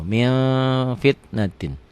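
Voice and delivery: MIN drawn into a nasal hum before fitnatin; nasal ikhfa. Shown as a demonstration. Teacher repeats the reading, held nasal min. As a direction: hold MIN, lips slightly open. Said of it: "Bindeng tetap".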